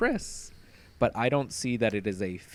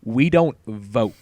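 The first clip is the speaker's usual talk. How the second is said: menacing man; 3 semitones higher, 7 dB louder than usual. Retold or imitated. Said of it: "he's like".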